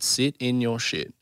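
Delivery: slow, weighted retold advice; measured, drawn-out instruction; deliberate advice. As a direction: spell it out slowly, as a counsellor would. Psychologist's key advice, acted out.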